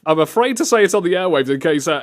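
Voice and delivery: usual speaking voice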